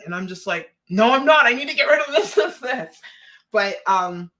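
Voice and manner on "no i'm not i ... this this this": higher, louder mock-frantic protest; worked-up retelling of a protest; insistent retort. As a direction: blurt it out in exaggerated desperation, breaking into a laugh. Acting out own frustrated reply.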